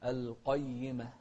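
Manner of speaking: careful recital of القيمة with heavy q; heavy qaf. Shown as a demonstration. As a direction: thicken the ق of القيمة. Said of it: "نراعي القاف المفخمة".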